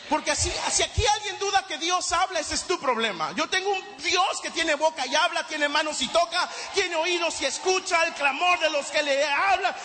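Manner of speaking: fiery preaching. Acted. Preaching at rising force.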